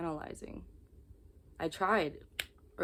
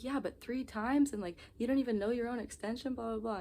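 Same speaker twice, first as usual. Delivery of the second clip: freaking out; 6 semitones higher than usual. Retold or imitated. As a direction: stretch the disbelief out, pitched up. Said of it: "I was freaking out earlier".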